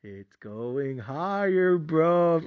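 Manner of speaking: drawn-out whispery tease; gloating softly; buddy rubbing it in; slow, soft smug taunt. Retold or imitated. Friend's hype retold.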